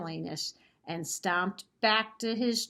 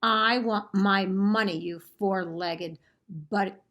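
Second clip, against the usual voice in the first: troll shouting; 4 dB louder than usual. Acted. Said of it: "he shouted".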